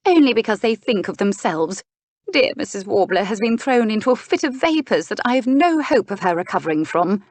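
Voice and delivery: high, dramatic aristocratic grievance; distraught duchess. Acted. Duchess complains.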